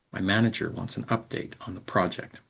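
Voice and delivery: manager, update, project clear, small words squished; natural sentence stress. Shown as a demonstration. Teacher repeating the natural stressed version. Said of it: "manager, update, and project are spoken very clearly".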